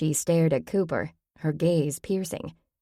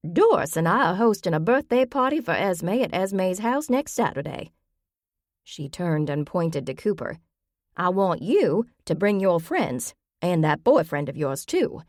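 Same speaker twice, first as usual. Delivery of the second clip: put-on a lightly raised, bossy old lady voice; feisty old grandmother; 2 semitones higher than usual. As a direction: push the plan like a stubborn granny. Grammy voiced in the story.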